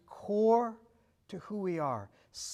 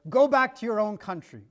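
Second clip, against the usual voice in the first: mild mock yell, somewhat louder; imitated heckler, raised voice; retold shout; 2 semitones higher, 5 dB louder than usual. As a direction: call it out as a retold heckle, only half shouted. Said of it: "someone shouted out from the window".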